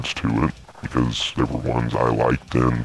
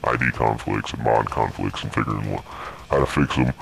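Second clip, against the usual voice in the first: voice changer. Real, not acted. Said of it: "what's the deal with the voice changer".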